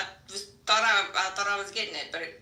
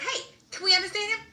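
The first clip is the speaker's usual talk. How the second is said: laughing retold question; 14 semitones higher than usual. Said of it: "I'm like".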